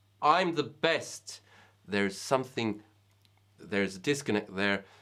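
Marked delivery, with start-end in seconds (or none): 0.2-1.4 really self-assured, confident, pitched-up voice. Showing listeners how it feels to speak while sitting small, really confident voice. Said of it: "in a really confident voice".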